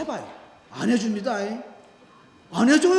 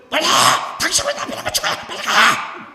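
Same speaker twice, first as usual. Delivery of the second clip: a loud, much higher furious yell; mock shriek; 5 semitones higher, 6 dB louder than usual. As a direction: shriek at him to go away. Woman yelling back.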